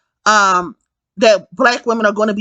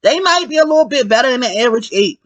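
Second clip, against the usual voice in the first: laughing through the line; giggling through the words; laughing repeat; faster than usual. Real, not acted. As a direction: repeat it while cracking up.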